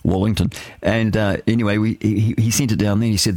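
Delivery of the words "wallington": "Wallington" repeated in the Kiwi way; mock the local "Wallington"; Kiwi Wellington. Shown as a demonstration. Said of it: "we say Wallington".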